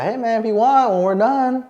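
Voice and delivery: lightly put-on German friend offering a trip; German accent. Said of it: "he's German".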